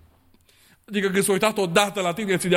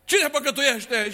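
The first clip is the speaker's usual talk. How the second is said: slow rhetorical question; 3 semitones higher, slower than usual. Real, not acted. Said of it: "repeated rhetorical question".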